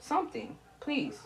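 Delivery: quiet, broken-up begging; barely voiced please to mother; soft plea. Real, not acted. Begging her mother softly, nearly silent.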